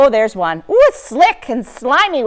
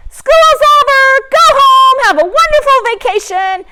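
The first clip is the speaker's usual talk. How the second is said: cheerful teacher; 13 semitones higher, 5 dB louder than usual. Retold or imitated. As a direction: sing it out like a teacher dismissing class. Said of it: "your teacher is gonna say".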